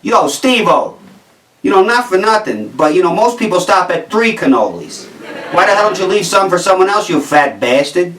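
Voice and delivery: a hint of a Jersey tough guy ribbing a friend; light Jersey accent, teasing a buddy. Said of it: "it'd be in a situation like this".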